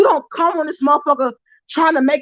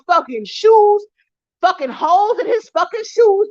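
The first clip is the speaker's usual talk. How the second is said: furious yelling; 6 semitones higher than usual. Real, not acted. Furious rant about daughter's boyfriend.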